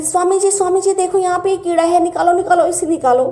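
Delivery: calling the Swami in a panic over an insect; retold frightened calling out. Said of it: "मैं चिल्लाने लगी ज़ोर ज़ोर से".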